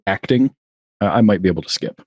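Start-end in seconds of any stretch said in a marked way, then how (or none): 0.1-0.5 sarcastic air quotes. Retold or imitated.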